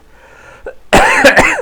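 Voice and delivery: harsh hacking cough; real sick cough; coughing fit. Real, not acted. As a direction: cough hard and long.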